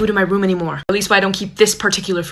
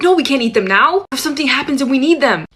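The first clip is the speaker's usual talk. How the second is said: higher-pitched mock protest; imitated childhood worry; 5 semitones higher than usual. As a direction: act out a kid's earnest objection, pitched up. Acting out childhood reasoning for hoarding.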